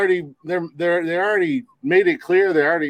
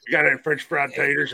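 Sling Blade impression; 3 semitones lower, 4 dB quieter than usual.

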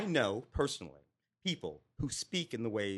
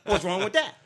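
asked through a laugh, louder; 6 semitones higher, 8 dB louder than usual. Real, not acted. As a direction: let the laugh spill into the question. Laughing while making his point.

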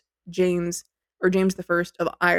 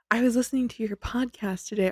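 quoting mom's text; 4 semitones higher than usual. Retold or imitated. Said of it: "and she said".

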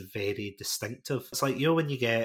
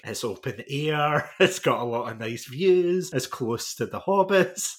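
gushing real estate agent; 4 semitones higher, 5 dB louder than usual. Pretend. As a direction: sell the place like an eager estate agent. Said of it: "I'm gonna sound like a real estate agent here".

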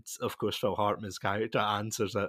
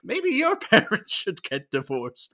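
high, loud, laughing through the line; laughing quote; 10 semitones higher, 8 dB louder than usual. Retold or imitated. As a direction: giggle through the kid's awful line. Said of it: "turns to Jamie and says".

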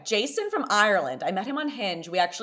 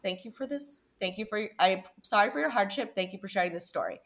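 mock polite thanks; 2 semitones higher, 4 dB quieter than usual. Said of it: "I was like".

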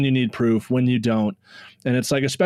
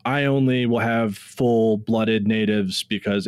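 mock purist poster; slower than usual. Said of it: "reading a Facebook post is like".

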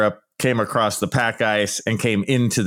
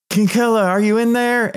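calling down a pit; 11 semitones higher, 3 dB louder than usual. Pretend. Passer-by calling down into the pit of despair, high and loud. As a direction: shout down to someone stuck far below. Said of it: "and you're like".

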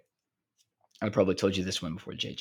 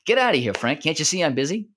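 louder, higher, in a put-on voice; mock brush-off; 7 semitones higher, 5 dB louder than usual. Rickles turning to Frank in front of his girlfriend, loud mock brush-off. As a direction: shoo him away as if he's a nuisance.

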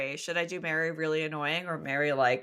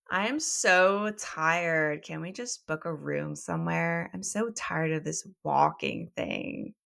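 ditzy Mary voice. Acted. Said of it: "she's gonna be a ditz as well".

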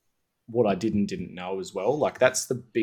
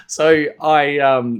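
high, loud burst of laughter; big laugh; 8 semitones higher, 11 dB louder, much slower than usual. Real, not acted. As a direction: crack up laughing.

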